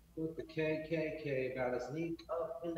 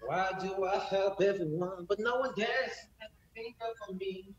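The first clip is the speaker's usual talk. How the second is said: pitched-up mock hillbilly twang. Joking on a livestream song in hillbilly voice. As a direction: ham up a hillbilly singer. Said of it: "Suck it, hillbilly ass voice".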